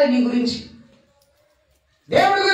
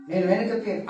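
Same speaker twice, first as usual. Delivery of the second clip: soft echo; 7 semitones lower, 8 dB quieter, faster than usual. Acted. Echoed repeat of the quote.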